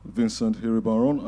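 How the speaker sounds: a careful try at a French accent on the name; attempted French accent. Shown as a demonstration. Host reads a guest's name in his best French accent. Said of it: "That's my best French accent".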